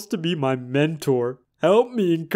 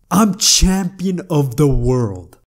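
triumphant slow shout; 6 dB louder, slower than usual. Acted.

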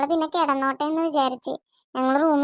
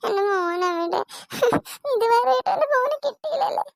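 tearful grief; 4 semitones higher than usual. Acted. Mother grieving missing son.

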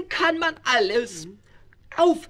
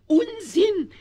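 indignant outburst; 6 semitones higher than usual. Acted. König weist Sorge zurück.

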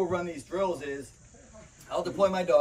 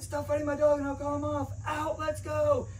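much higher, firm command, slowing on "Out, let's go"; commanding call; 11 semitones higher than usual. Retold or imitated. Handler tells attackers to stop, then recalls his dogs, firm high command.

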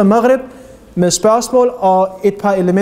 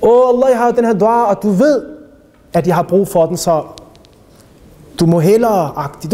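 mock arrogant prayer; 2 semitones higher than usual. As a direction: imitate someone presumptuously placing an order with God. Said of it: "lad være med at være arrogant og så sige".

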